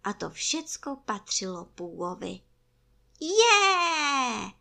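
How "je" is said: high, loud, drawn-out whoop; overjoyed bear's exclamation; delighted cry. A narrator's reading. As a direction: cry out with joy. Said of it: "zvolal Pů".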